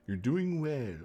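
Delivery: lightly piping Capitol voice; put-on Capitol voice. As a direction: start a high encouraging Capitol quote. First try at Capitol character's quote.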